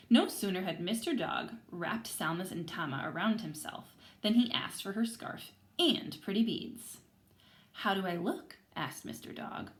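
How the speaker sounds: lively read-aloud to a class; story reading to children. Acted. Teacher reading aloud to her class, lively storytelling. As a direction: tell the story to the kids, voicing everyone.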